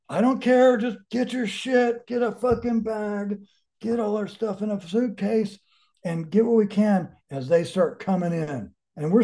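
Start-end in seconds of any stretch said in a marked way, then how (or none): 0.1-7.2 urgent orders. Retold or imitated. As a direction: rush them out of the house, pressing. Urging family to pack fast.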